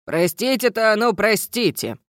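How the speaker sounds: gruff stern gnome teacher. Acted. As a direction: scold like a strict old gnome. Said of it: "продолжил строго преподаватель".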